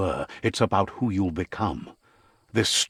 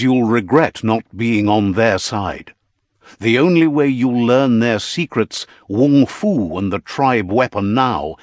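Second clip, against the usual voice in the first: loud threat; 6 dB louder than usual. Acted. Narrator relays enemy's threat.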